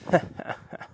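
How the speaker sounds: breathy, voiceless chuckle; a soft, wicked little laugh; villain chuckle. Acted. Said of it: "Polaris chuckled".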